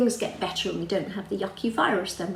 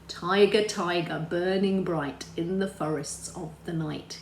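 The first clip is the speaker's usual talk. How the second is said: poem recital. Shown as a demonstration. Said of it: "famous poem".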